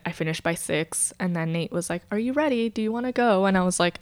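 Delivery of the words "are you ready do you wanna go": put-on light British accent, lifted higher. Retelling boyfriend asking if she's ready, mock British accent. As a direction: imitate him with a touch of British. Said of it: "I gave him a British accent".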